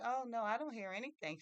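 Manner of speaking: high, loud acted denial; emphatic denial. Martha denies hearing the crying to Mary, emphatic denial.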